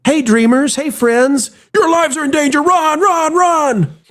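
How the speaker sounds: very high, sing-song alarm; cheery panicked announcer. Retold or imitated. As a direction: chirp the danger cheerfully. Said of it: "they probably wouldn't say".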